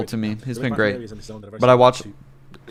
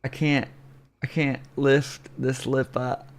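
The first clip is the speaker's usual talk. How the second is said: talking with numb lip after dentist; numb mouth; 2 semitones higher, slower than usual. Real, not acted. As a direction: speak through a numb cheek. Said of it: "My cheek is numb and my teeth are numb".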